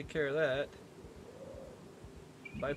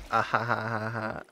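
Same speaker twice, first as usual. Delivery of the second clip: laughing; 4 dB louder than usual. Real, not acted. Laughs at zombie ratio.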